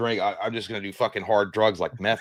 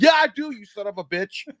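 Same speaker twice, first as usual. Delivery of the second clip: mock yell; 8 semitones higher than usual. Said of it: "yelling and screaming at it".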